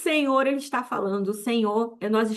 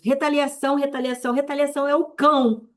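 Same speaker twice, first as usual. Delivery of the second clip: irate preaching; 3 semitones higher than usual. Real, not acted. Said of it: "Tô irada mesmo".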